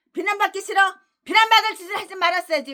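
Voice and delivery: high, fast scolding; mock them, then slam the verdict; taunting rebuke. Real, not acted. Preacher taunting critics who hate blame.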